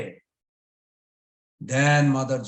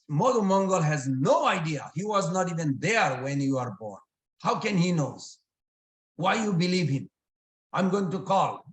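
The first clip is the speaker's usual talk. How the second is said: indignant protest; 4 semitones higher than usual. Acted. Mother indignantly rejects the accusation.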